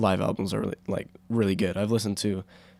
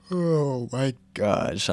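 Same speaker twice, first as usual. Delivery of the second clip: tired sigh; 8 semitones higher, much slower than usual. Real, not acted. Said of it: "I'm tired".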